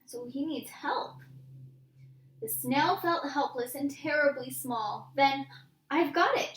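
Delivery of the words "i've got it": excited cry. Acted. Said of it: "she cried".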